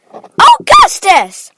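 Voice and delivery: high, drawn-out shout; Missus Gloop. A narrator's reading. Mother shouting at her son, high and long. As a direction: shout the name at full voice. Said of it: "shouted Missus Gloop".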